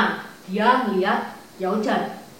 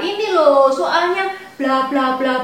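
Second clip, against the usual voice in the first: louder, higher angry opening; angry outburst; 4 semitones higher, 4 dB louder than usual. Acted. Liu Bu venting to Wang Yun, loud angry complaint. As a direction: burst out complaining. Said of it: "Liu Bu langsung marah".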